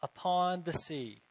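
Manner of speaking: "Upon the sea" drawn out slowly, weight on "Upon"; slow stress on upon. Shown as a demonstration. Preacher pointing out the same Greek word, slow and stressed. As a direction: lean on "Upon" and let "the sea" follow slowly. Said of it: "It's the same word".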